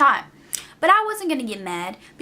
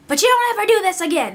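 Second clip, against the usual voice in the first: stern warning; 7 semitones higher, 4 dB louder, faster than usual. Retold or imitated. Customer warning, voiced.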